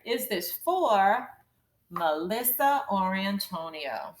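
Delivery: slow rising "Is this for", pause, "Melissa or Antonio" falling; scooped phrasing. Shown as a demonstration. Teacher pointing out each scoop, slow two-part phrasing. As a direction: break after "for", then "Melissa or Antonio" in one scoop. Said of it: "This would be one scoop".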